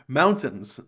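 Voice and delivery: Mountains said with a crisp T, moun-tains; careful mountains with the T; clear T in mountains. Shown as a demonstration. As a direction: land the T firmly in Mountains. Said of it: "you put the T on in mountains".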